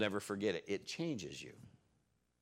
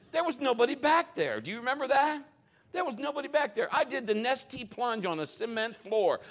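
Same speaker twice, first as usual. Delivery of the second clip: much higher and louder, all worked up; excited retelling; 13 semitones higher, 6 dB louder than usual. Retold or imitated. Preacher telling the congregation about his fall, excited and loud. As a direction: relive the shock out loud.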